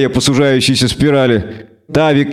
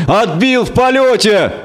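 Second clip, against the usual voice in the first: higher, slow amazed cry; stunned exclamation; 8 semitones higher than usual. Acted. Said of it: "охнул Десятка".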